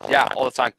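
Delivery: garbled digital glitching voice; robot voice from a bad connection. Real, not acted. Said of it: "we're getting the robot voice from you".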